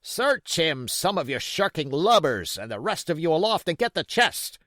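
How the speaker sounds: loud, high raging orders; angry cry. Acted. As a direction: lash at the shirking men. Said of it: "he cried".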